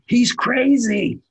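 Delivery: high, drawn-out mock yell; retold yell. Studio head yells down from upstairs, high mock shout. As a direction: imitate calling down the stairs, slow and high. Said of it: "yells down".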